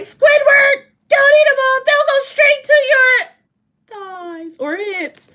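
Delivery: very high, loud cartoon shriek; shrieking SpongeBob. SpongeBob warning Squidward about his hips, high loud shriek. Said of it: "First it was like".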